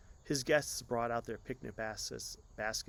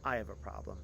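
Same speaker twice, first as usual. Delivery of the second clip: slowly repeating; 4 semitones higher, 7 dB louder than usual. Acted. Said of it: "repeated the words slowly".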